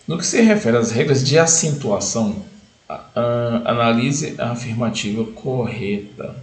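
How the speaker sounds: leitura lenta do enunciado, arrastando as palavras; slow reading. Shown as a demonstration. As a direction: lendo a questão devagar, sílaba por sílaba. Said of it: "fala o seguinte". (leitura pausada)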